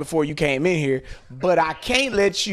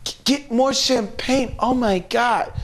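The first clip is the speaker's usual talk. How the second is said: excited woman's voice; 5 semitones higher than usual. Retold or imitated. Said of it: "She's like".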